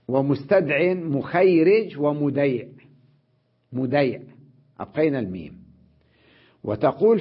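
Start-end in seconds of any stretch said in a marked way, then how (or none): 0.1-2.7 مخيرج ومديع read slowly; slow reading of the text. Shown as a demonstration. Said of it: "قال". (قراءة متأنية للأمثلة)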